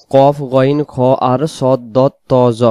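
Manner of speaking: কফ, গইন, খ, সদ, দ, ত, জ each thick and rounded; heavy letters. Shown as a demonstration. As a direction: recite the letters with full "o" vowels. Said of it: "উচ্চারণে মোটা হবে".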